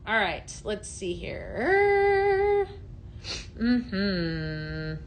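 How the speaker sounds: slow, stretched thinking aloud; slow drawl while reading the chat; drawn-out musing. Real, not acted. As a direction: stretch it out while scanning comments. Reading comments slowly to herself.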